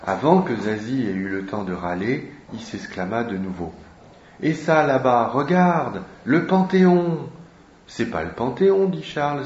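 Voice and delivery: lively read-aloud with voiced characters; reading a novel aloud. Teacher reading Zazie to the class, lively read-aloud. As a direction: bring the Paris dialogue to life.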